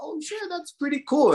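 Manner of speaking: high, bright-eyed mock wow; imitating a wowed customer; impressed exclamation. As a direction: toss it up like you're truly impressed. People reacting to Guam food.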